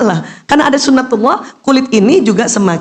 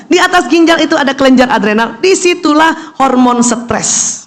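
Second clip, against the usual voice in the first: ordinary talk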